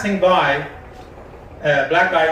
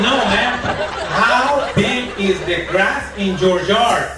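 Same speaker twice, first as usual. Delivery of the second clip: mock Spanish accent, slow and higher; 4 semitones higher, slower than usual. Gardener correcting the caller, slow mock Spanish accent. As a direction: drawl it out in a hammed-up Spanish accent.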